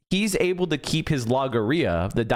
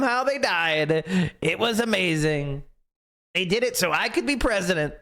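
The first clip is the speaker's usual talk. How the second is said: mocking Trump; 5 semitones higher than usual. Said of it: "He's like".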